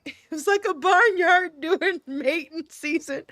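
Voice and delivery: breaking into laughter mid-line; cracking up. Real, not acted. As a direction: try the line and fail, laughing through it. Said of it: "say this with a straight face".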